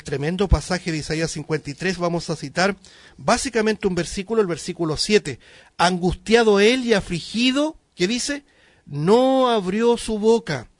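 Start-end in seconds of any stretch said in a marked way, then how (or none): 5.8-10.7 loud, raised preacher's reading; louder, lifted voice for Bible verse; emphatic Scripture reading. Acted. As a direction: proclaim the verse with force. Reads Scripture aloud emphatically.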